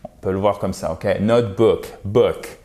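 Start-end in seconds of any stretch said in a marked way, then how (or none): 1.2-2.6 short vowel in book; ou court. Shown as a demonstration. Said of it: "Ici, c'est un ou court". (book avec un « ou » court)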